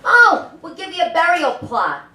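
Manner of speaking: high, sugary sales voice; lightly hammed-up welcoming boss; mock sales pitch. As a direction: gush like a pushy recruiter. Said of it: "They're like".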